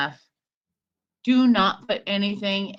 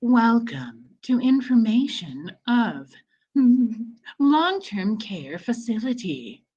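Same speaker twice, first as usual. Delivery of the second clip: slow announcer voice; like a recorded elevator announcement; 3 semitones higher than usual. Shown as a demonstration. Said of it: "I'll put on my elevator voice".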